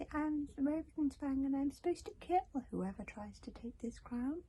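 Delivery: faint whispered hiss of an ancient dragon; barely there hiss. A narrator's reading. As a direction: breathe it out like a skeleton leaf. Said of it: "His voice was a barely there hiss".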